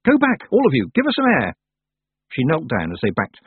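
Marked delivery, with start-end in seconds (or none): 0.1-1.6 high, loud urgent shout; girl yelling for the crowd to step back. A narrator's reading. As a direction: drive the crowd back with a cry. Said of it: "Tiffany screamed at the people".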